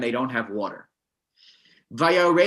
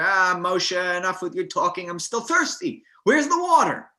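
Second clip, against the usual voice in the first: whiny thirsty crowd. Retold or imitated. The thirsty people whining at Moshe, mock impatient.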